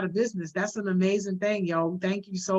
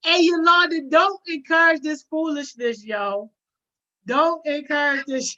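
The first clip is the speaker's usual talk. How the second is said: higher, louder playful shout of "don't"; mock scolding shout; 5 semitones higher, 3 dB louder than usual. Streamer telling Yolanda off over her chat joke, mock shout. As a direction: call her out, half joking.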